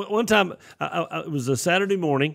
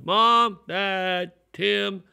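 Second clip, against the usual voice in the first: calling out for family; 6 semitones higher, much slower than usual. Retold or imitated. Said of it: "I started yelling".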